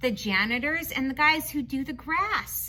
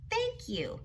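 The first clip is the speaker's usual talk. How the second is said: voicing the girl; 8 semitones higher, 5 dB quieter than usual. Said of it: "she says, "Thank you".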